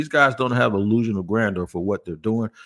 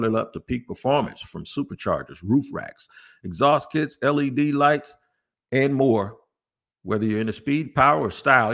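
measured, punchy ad delivery; sponsor ad read. Real, not acted. Host pitches eBay Motors to listeners, ad read. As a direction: read it like a car-parts radio spot.

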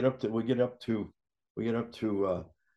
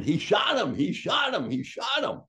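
high, loud panicked shouting that climbs; screaming; 10 semitones higher, 3 dB louder than usual. Retold or imitated. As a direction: yell it in alarm as the man falls. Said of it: "they're screaming".

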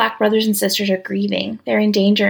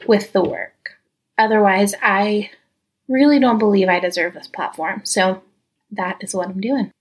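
winded. Real, not acted. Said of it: "if I sound a little bit winded today".

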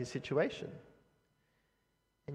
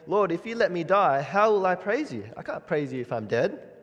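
louder, higher bold plea to God; bold pleading; 4 semitones higher, 5 dB louder than usual. Retold or imitated. David bargains with God, a bold raised plea. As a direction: bargain with God, pressing hard. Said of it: "he's kind of saying".

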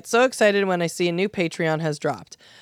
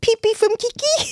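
silly high voice. Pretend. Silly mispronouncing game.

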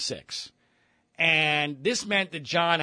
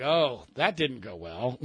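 laughing aside; 4 semitones lower, 5 dB quieter, slower than usual. Retold or imitated. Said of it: "So I'm like".

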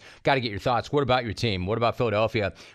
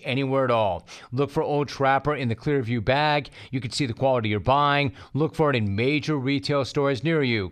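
chipper 1950s ad. Acted. Host reads sponsor ad.

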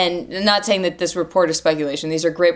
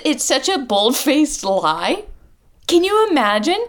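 incredulous; 7 semitones higher than usual. Real, not acted. Incredulous outburst.

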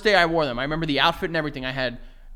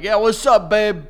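louder, breezy phone greeting; casual mechanic; 6 semitones higher, 8 dB louder, slower than usual. Retold or imitated. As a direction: answer like a laid-back mechanic.

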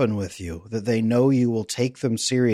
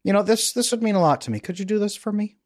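voicing a calm partner, pitched higher; calm partner asking; 9 semitones higher than usual. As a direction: gently ask a favour as the ideal partner. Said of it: "they just very calmly ask".

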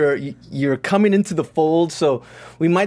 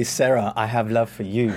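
Ben's declaration of love; 6 semitones lower than usual. Acted. Host teasing co-host with her dream scene, mock-romantic. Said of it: "wanted Ben to come through the screen and say".

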